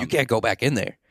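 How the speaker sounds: homeless guy warning. Retold or imitated. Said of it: "That's exactly how he sounds".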